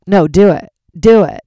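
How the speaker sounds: imitating a comic goading loudly; pushy shout. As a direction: egg her on into the mic. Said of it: "was like".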